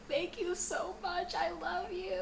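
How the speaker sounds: high, slow, teary gushing thanks. Retold or imitated. To the nurse after the shower, high teary thanks. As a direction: gush thanks through half-mimicked tears.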